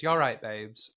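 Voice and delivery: light imitation British accent; Bimini. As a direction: drag queen catchphrase in a London accent. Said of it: "Bimini when she says".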